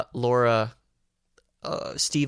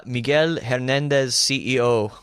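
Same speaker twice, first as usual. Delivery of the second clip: slow, emphatic Hispanic accent on the name; 2 semitones higher, 4 dB louder than usual. Shown as a demonstration. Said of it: "That's my best, uh, Hispanic accent".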